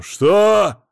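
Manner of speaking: roared high and loud; roaring. Acted. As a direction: bellow it at him. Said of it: "взревел Мамонов".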